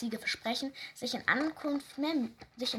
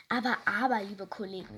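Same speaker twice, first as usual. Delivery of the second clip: gently smiling. Acted. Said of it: "milde lächelnd".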